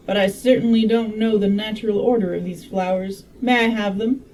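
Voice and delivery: a hint of Southern in the voice; attempted Southern accent. Medical man asking for the flowers, lightly Southern accent. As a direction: read it with a loosely held Southern accent. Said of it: "I tried to make him Southern".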